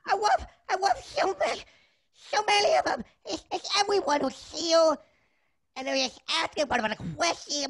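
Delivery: high, tearful babble in a little chef voice; emotional blubbering. Acted. Little chef overwhelmed by fans, tearfully blubbering. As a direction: gush fast and break down mid-thought. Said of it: "I'm getting emotional too".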